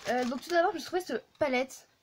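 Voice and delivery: hushed late-evening chat. Real, not acted. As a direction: keep it hushed, as if others sleep. (voix feutrée)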